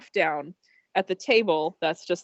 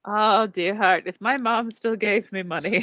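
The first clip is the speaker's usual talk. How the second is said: put-on British accent. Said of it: "all of a sudden British".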